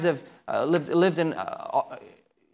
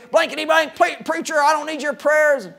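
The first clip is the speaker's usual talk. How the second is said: higher, louder snarl of a mild curse; mock angry cursing; 11 semitones higher, 5 dB louder than usual. Drunk neighbor cursing the preacher, mock angry and raised. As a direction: snap back at the preacher, hammed-up. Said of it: "Carl Hatch would curse him".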